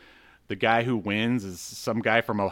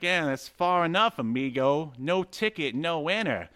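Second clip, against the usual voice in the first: mock Hispanic accent; 7 semitones higher than usual. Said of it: "am I supposed to be doing a Hispanic accent?".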